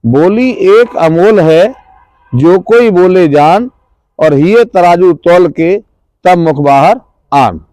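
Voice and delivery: slow, measured reciting of a doha; couplet recitation. Acted. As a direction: recite the verse slowly with weight. (धीमे, ठहरकर दोहा पाठ)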